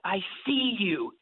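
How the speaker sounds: hiss. Retold or imitated. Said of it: "I hiss at it".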